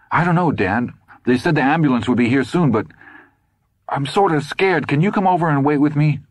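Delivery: high, small frightened plea; scared boy. A narrator's reading. Todd begging his father on the phone, scared plea. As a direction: play the frightened kid.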